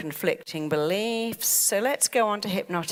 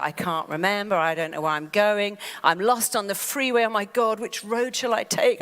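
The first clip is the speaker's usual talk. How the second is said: mock panic. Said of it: "I'm just panicking".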